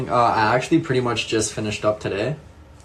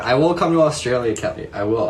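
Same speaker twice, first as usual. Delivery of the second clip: emphatic promise; 2 semitones higher, 5 dB louder than usual. Real, not acted. Promising viewer Kelly.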